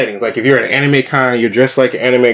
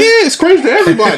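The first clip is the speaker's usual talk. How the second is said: laughing through the words; faster than usual. Real, not acted. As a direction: say it mid-laugh. Laughing while insisting.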